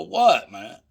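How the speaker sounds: high, loud puzzled demand; retold bafflement. Teller asks the laughing dealer what's funny, baffled. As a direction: demand to know the joke, retelling it. Asking why they laugh at him.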